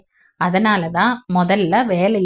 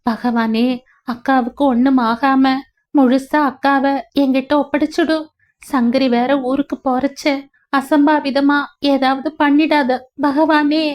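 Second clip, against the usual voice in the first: anxious prayer; 4 semitones higher than usual. Acted. Anxious prayer for sister's safety.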